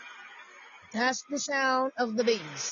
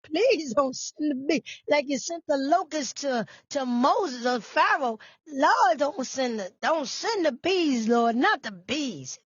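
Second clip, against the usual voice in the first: mock prayer. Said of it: "Somebody said".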